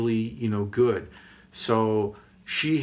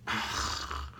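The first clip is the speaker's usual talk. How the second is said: long voiceless exhale; sigh; 9 dB quieter than usual. Acted. After arguing with companion, a long sigh. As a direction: let out a long, airy sigh.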